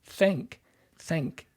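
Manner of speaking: "Thank" pronounced "thenk". Shown as a demonstration. Voice coach spells out the shifted vowel, "Thank" said as "thenk". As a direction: turn the "a" of "Thank" into a short "eh". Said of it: "the ah sound now becomes an S sound".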